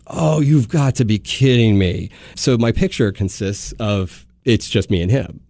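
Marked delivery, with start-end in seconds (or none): 0.1-2.1 slow, drawn-out, higher-pitched disbelief; exasperated disbelief. Retold or imitated. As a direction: stretch it out in dismayed disbelief. Reacting to the photobombed picture.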